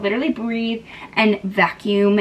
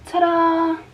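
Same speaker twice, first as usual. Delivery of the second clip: ta-da; 6 semitones higher than usual. Pretend. Presenting emptied space.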